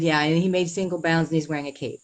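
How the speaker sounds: shocked wife scoffing at the police officers, mocking; joking mockery. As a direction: make fun of it in disbelief. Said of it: "I was making fun of the situation".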